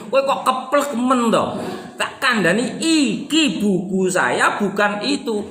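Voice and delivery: playful exasperated telling-off; mock annoyed scolding. Shown as a demonstration. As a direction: scold a dim helper, half joking. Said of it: "agak marah".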